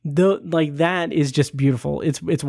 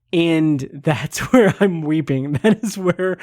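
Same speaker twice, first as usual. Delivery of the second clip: laughing through tears. Real, not acted. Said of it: "I'm keeping composure right now".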